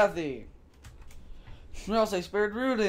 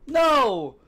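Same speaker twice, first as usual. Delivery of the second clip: loud; 4 semitones higher, 5 dB louder than usual. Acted. Shouted refusal.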